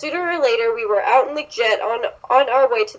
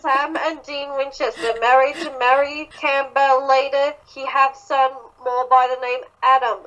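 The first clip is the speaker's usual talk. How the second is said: attempted butler accent, badly faked; Jarvis. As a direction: put on an uncertain foreign-to-you accent. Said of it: "I don't know what accent that was".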